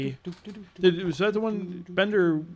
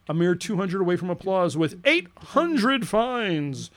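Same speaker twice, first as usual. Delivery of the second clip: announcer; 3 semitones higher, 5 dB louder, slower than usual. Pretend.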